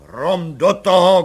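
loud, slow exasperated curse; shouted oath. A narrator's reading. Commissioner shouts at the crying mother, loud and slow. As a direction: bark it out, fed up. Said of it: "křikl komisař".

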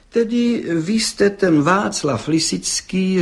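a judge eyeing the pale culprit sternly. A narrator's reading. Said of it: "pohlížeje přísně".

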